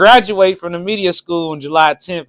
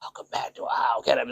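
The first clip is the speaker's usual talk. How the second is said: usual loud intro; 3 semitones lower, 9 dB quieter, faster than usual. Shown as a demonstration. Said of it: "It won't be like before".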